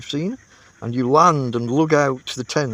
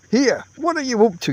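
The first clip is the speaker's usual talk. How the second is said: higher, irritated call across the tent; 11 semitones higher than usual. A narrator's reading. Camper calls out at his tentmate, irritated. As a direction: shout across at a bungling partner. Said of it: "you call out".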